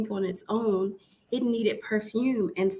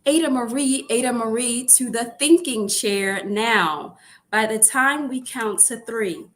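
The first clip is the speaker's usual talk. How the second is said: scolding parent; 5 dB louder than usual. Acted.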